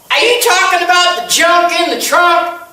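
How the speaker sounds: high, half-laughing mock shout from the back; mock yell. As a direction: call it out across the room, half laughing. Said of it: "She yells out".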